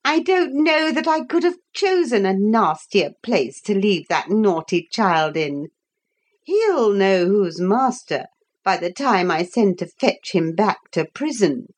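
high, sneering nurse; a spiteful nurse gloating; haughty nurse voice. Acted.

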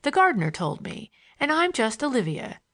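lightly voiced schoolgirl, lilting; a hint of a candid young girl. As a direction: introduce yourself with a light girlish lilt.

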